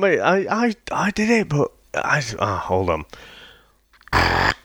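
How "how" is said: low spluttering mouth gunfire; machine gun sounds. Shown as a demonstration. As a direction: rattle out a burst of fake gunfire. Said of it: "Let's hear it".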